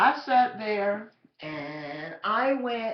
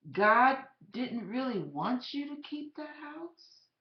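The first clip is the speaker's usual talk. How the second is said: slow, careful. Retold or imitated. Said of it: "begins to speak very slowly".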